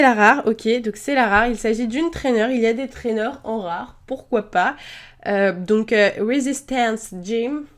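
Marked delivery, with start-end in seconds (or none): 6.2-7.6 English words in a French accent, slowly. Real, not acted. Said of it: "vous voyez mon superbe accent anglais". (anglais avec l'accent français)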